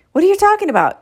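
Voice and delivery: high-pitched indignant protest; indignant retort. Acted. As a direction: throw it back, affronted. Partners quarrel, indignant retort.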